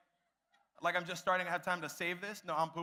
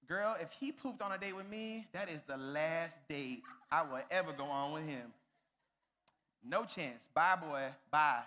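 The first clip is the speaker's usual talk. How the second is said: put-on sassy girl voice. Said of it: "girls in the back are probably like".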